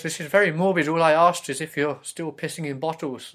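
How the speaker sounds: exasperated rebuke. Acted. Mother asking about her son's bottles, exasperated. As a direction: scold loudly, as a put-upon parent.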